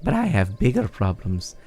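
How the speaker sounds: lightly voiced exasperated kid, leaping high at times; mildly hammed-up complaining; whiny Rito villager. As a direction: grumble dramatically about an annoying parent. Voices Faison complaining about mom.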